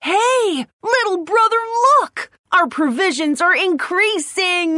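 excited. Acted. Little ant calls out excitedly.

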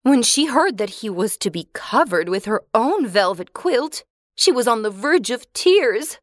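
ordinary delivery

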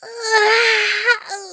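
long high drawn-out yawn; sleepy yawn. Acted. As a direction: yawn as if barely awake. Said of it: "I yawned".

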